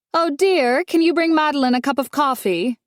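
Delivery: put-on sugary rich older lady calling out; a condescending matriarch sweetly summoning help; Dolores, sweet-voiced matriarch. A narrator's reading. Dolores calls to the maid.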